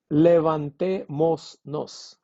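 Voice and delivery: "levantémonos" said slowly with an S kept before nos; S sesi korunarak. Shown as a demonstration. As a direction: sound out "levantémonos" slowly as le-van-te-mos-nos. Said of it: "that S that should be here".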